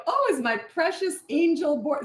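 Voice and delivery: high, slow, sugary mock concern; mock-sweet mother. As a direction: coo it with sarcastic sweetness. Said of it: "exactly what my mother would have done".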